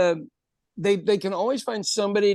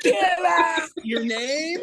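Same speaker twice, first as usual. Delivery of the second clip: surprised; 9 semitones higher, much slower than usual. Real, not acted. Disbelieving friend's shocking story.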